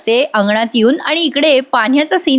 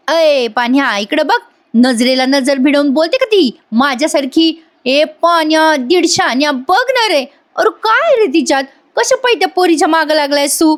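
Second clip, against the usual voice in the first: Payal; 6 semitones higher than usual. Retold or imitated. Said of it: "पायल म्हणते".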